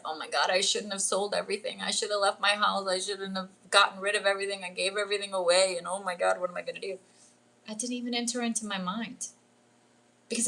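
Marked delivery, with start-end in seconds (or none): 0.0-7.0 understated, rushed imitation of panic; mock panic. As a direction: rattle off regrets as if panicking, mildly. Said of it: "I could have panicked and said".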